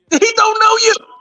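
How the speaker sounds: put-on voice, pitched very high. Chiming into the conversation with a line in Adrian Broner voice. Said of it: "in my Adrian Broner voice".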